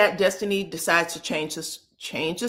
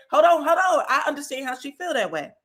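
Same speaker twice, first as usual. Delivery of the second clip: mock exclaim; 6 semitones higher, faster than usual. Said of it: "But she said".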